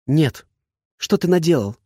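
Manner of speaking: put-on upset girl. A narrator's reading. Heroine upset at boss.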